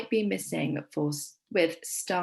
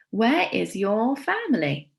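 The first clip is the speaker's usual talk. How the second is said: character voice; 2 semitones higher, 4 dB louder than usual. Acted. Teacher voices character's question.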